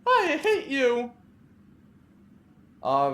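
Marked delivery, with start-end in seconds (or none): 0.1-1.1 higher, slow spat-out hate; Clarissa hating. Acted. Clarissa tells Veronica she hates her, slowly. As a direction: drag out every word of it.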